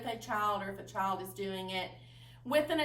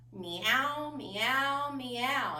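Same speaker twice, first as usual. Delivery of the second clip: kitten meow; much slower than usual. Shown as a demonstration. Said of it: "your animal sounds".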